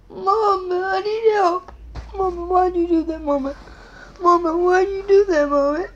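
fake-cry to get Mama's sympathy; pretend crying. Child playing hurt whimpers to Mama after the pretend hit, fake crying.

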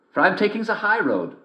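high sly wolf voice; big bad wolf sweet-talking a girl. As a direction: greet her like a cunning wolf. Wolf replies.

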